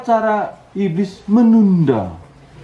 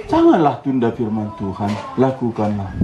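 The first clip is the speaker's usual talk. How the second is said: lower-pitched, mildly gentle urging; gentle Holy Spirit; 9 semitones lower than usual. Acted. Holy Spirit urging a believer not to delay, mildly gentle. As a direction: lightly voice a gentle divine plea. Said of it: "Roh Kudus ini kan suaranya lembut".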